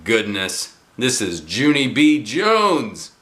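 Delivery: slow proud announcement; a grandfather boasting; proud grandpa. Acted. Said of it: "said my grandpa".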